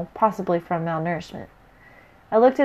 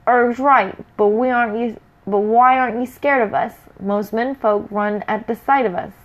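troll voice. Acted. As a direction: demand it like a big troll. Big troll questions hero.

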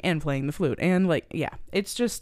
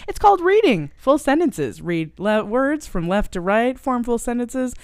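imitating snarky Richard; 4 semitones higher, 4 dB louder than usual. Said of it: "walks up to him and he goes".

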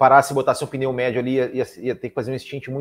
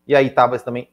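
about to sneeze; talking through a coming sneeze; holding back a sneeze; 5 dB louder than usual. Real, not acted. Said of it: "nossa, tô vontade de espirrar".

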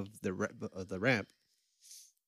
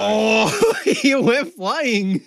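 laughing; 10 semitones higher, 13 dB louder, much slower than usual. Real, not acted. Laughing at the bike crash video.

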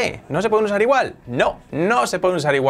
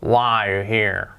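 why said fast and clipped like a film line; casual film English; movie-style English; 5 semitones lower, slower than usual. Shown as a demonstration. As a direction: rush the why as heard in a movie. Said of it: "alguna película escucharéis".

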